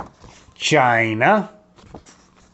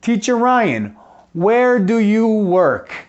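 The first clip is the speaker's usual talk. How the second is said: put-on much higher, bright child's voice asking "where do you live?"; 8 semitones higher, 4 dB louder than usual. Teacher plays a pupil asking Teacher Ryan, high childlike voice. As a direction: pitch way up like a student asking the teacher. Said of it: "So, você".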